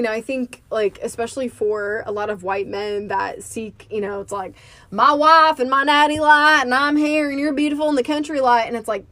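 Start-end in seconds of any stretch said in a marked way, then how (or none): 4.9-8.7 high, lightly mocking bro country croon; a hint of a bro country singer. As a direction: send up a bro country hit.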